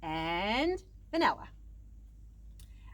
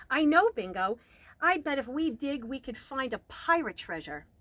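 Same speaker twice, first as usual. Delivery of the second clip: excited idea; 3 semitones higher, 5 dB louder than usual. Acted.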